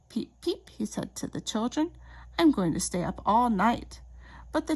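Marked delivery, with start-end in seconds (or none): 0.1-0.7 little chick voice. Acted. Chick speaks. 2.4-4.0 excited chick. Acted. Chick tells children.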